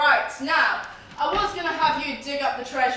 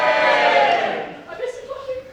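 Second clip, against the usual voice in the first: mock sad; 8 semitones higher, 3 dB louder, slower than usual. Pirate captain suddenly pining for teddy.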